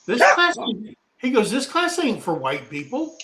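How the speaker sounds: high, challenging retold jab; acting out a hostile classmate; mock confrontation.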